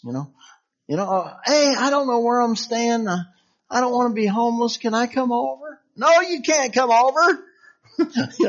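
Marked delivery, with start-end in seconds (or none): 1.1-5.8 high, wheedling ask to stay; pleading moocher. Retold or imitated. A homeless-claiming friend begging to come over, high and pleading. 6.0-7.4 high, louder mock refusal; flat refusal. Host turning away the begging friend, high and firm.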